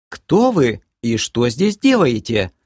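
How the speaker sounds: lady confronting intruders, assured; confident lady. Acted. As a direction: demand it with poise. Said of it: "уже более уверенным голосом".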